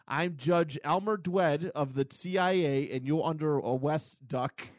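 a mock baby-voiced judge, slow; slow, childish lisp of a cop; baby talk. Retelling a comic cop, mild baby voice. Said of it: "He talks like a baby".

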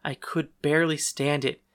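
plain reading voice

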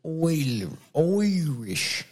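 drawn-out "oy" Irish accent; botched Irish accent, stretched vowels; attempted Irish accent. Shown as a demonstration. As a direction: overdo a bad Irish accent, word by word. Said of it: "tried to do an Irish accent".

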